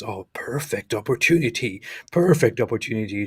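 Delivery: lightly acted opportunistic thought; a touch of mock delight, leaning on "perfect"; imagined scheming politician. Co-host voicing the president's thinking, lightly mock-pleased. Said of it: "he thinks".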